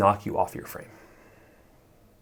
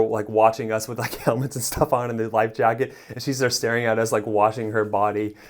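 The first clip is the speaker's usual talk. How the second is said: imitating laughing friend; 3 semitones higher than usual. Narrator imitating friend Tyler mid-laugh on the raft, amused. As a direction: mimic your friend cracking up, lightly. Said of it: "He starts laughing his ass off".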